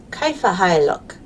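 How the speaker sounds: teacher repeats كيف حالك after the clip, American accent; repeating the Arabic. Shown as a demonstration. Teacher echoing the clip for children, careful Arabic. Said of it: "It said".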